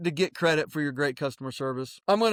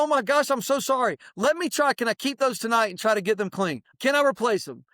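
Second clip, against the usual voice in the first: higher, eager and sorry; apologetic customer voice; 5 semitones higher than usual. Shown as a demonstration. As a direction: apologize sweetly to the upset parent. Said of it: "You need to look at them and go".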